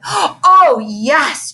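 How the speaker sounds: high excited trill; girl gushing over found mittens, high trill. Acted. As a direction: gush it out in a bright trill. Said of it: "trilled Victoria".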